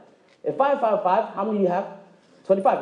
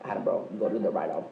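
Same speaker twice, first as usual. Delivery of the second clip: lazy gym bro; 13 semitones lower, 8 dB quieter than usual. Retold or imitated.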